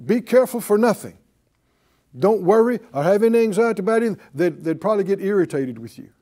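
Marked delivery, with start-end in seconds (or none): 0.0-4.2 rattled off fast, breezy; tossing the verse off lightly; fast, dismissive quoting; quick brush-off. Retold or imitated. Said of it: "if they're upset and you say".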